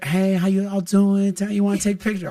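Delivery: Mike Tyson voice. Retold or imitated. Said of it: "backstage with Mike Tyson".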